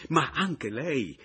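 slow, sharp retort; drawn-out comeback. Acted. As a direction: throw it back at him. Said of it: "rimbeccò Pomino".

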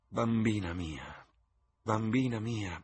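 stagey mother's cry, a touch hammed-up; theatrical exclamation. A narrator's reading. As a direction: play to an imaginary gallery. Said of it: "esclamò la signora Vane". (esclamazione teatrale, un po' enfatica)

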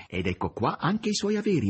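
high, sweetly ingratiating voice; suave. A narrator's reading. Korofiev returns Margherita's belongings, high and suave. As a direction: say it suavely, pitched well up. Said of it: "sussurrò soavemente a Margherita".

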